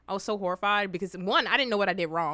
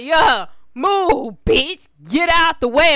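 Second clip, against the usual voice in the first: put-on high, loud child chanting lyrics; little kid voice; 5 semitones higher, 11 dB louder, much slower than usual. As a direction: belt it like a proud kid. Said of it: "I'm like".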